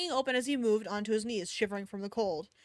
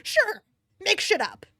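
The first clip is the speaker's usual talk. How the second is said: loud, higher mocking sarcasm; sarcastic outburst; 8 semitones higher, 5 dB louder, slower than usual. Real, not acted. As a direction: jeer at the writer. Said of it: "but whatever, sure".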